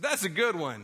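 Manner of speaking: high, loud mock disbelief; imitated hysterical amusement. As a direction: react as if to a great joke. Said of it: "he starts laughing hysterically at me".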